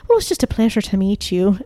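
imitation Irish accent; Irish old lady. Old lady saying goodbye to visitors, Irish accent. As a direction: say it with an Irish lilt. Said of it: "most beautiful Irish accent".

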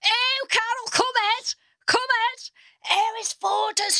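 high, excited woman calling out; imitating the woman. Woman at the charity do, calling Carol over, high and thrilled. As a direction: wave her over, thrilled. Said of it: "this woman goes".

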